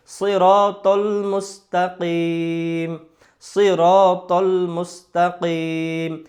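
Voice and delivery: slow drawn-out recitation of "সিরাতাল মুস্তাকিম" with a full heavy "স"; Quran recitation. Shown as a demonstration. Teacher models Surah Fatiha for students, slow recitation. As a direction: chant it slowly, stretching every vowel. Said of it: "যেমন আমরা পড়ি না সূরা ফাতিহার মধ্যে".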